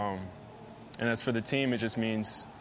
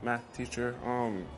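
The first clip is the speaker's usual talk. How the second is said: sweet-talking teacher's pet; 2 semitones higher than usual. Retold or imitated. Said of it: "Gets him every time".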